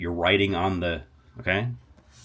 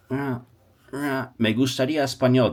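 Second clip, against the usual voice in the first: hesitant wrong phrase; 5 semitones higher than usual. Shown as a demonstration. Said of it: "doesn't really work".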